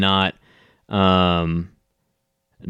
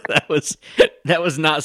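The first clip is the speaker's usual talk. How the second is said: hiccup breaking into the words; catching on hiccups mid-sentence; 8 semitones higher than usual. Real, not acted. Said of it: "sorry, I just hiccuped on it".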